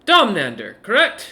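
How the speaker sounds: suddenly zero in on him; sharp dwarf wizard. Acted. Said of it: "focus suddenly in onto Domnander and goes".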